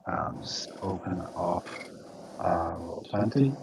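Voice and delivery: normal talking voice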